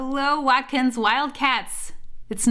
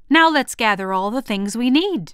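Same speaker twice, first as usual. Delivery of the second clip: exclaiming; 2 semitones higher, 5 dB louder than usual. Acted. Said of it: "she exclaimed".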